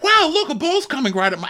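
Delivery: high-pitched goofy wonder; put-on gee-whiz excitement; mock amazement. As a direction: marvel in a silly, very high voice. Mimes watching a ball approach.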